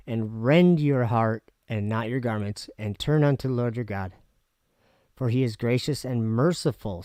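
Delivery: solemn Bible reading, rising start; scripture reading. Acted. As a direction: read the verses like a preacher. Reads scripture aloud.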